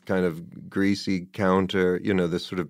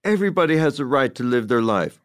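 imitating Susan Tyrrell; 7 semitones higher, 4 dB louder than usual. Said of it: "She goes".

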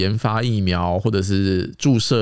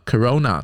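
"corona" with the stress on "ro" and the first o reduced; "corona", the "ro" stressed and the "co" weakened; stress on the second syllable. Shown as a demonstration. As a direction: lean on the middle of "corona". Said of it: "它的重音在第二音节嘛".

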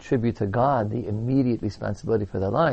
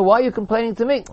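mock exasperated God; 10 semitones higher, faster than usual. God rebukes the people.

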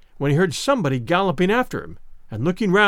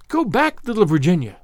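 tiny tapestry huntsmen crying out. Acted. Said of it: "they cried".

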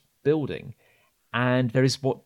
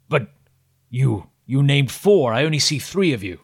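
suspicious voice; 3 semitones higher, 4 dB louder than usual. Acted. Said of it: "you hear this voice go".

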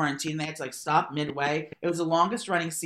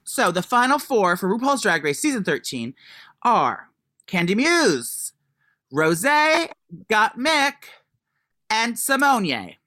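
excited announcement; 4 semitones higher, 3 dB louder, slower than usual. Real, not acted. Announcing the final four.

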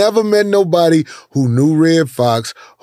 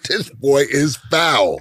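amazed listener reaction; 2 semitones lower, 5 dB quieter, slower than usual. Retold or imitated. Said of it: "You be like".

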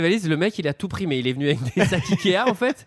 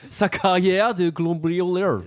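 slow mock German-English accent; imitating a German-English accent, slowly; German then English accent; much slower than usual. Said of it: "T'as fait un accent allemand suivi d'un accent anglais".

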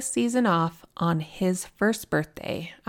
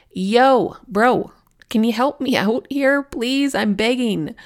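lightly acted plea for help; retold pleading; 4 semitones higher, 5 dB louder than usual. Sister stranded in a kayak calls on her brother, mock pleading. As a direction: beg a brother, half playful, voice lifted.

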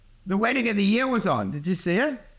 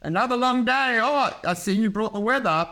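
mock housewife small talk; 4 semitones higher than usual. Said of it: "a housewife throws a stick and goes".

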